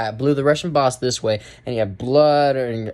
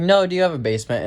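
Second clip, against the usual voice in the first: a quicker, pressing repeat of the question; insistent repeat; 4 semitones higher, much faster than usual. Retold or imitated. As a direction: repeat it faster, insisting this time. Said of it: "She's like".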